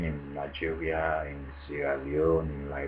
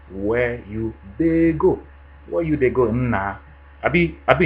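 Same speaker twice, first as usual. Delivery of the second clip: mock Nigerian pidgin accent, much higher and louder; 6 semitones higher, 8 dB louder than usual. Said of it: "But with the Nigerians, they say".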